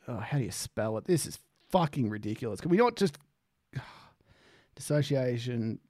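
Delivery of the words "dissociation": "dissociation" said slowly and deliberately; careful pronunciation. Shown as a demonstration. After looking it up, reading the word out carefully.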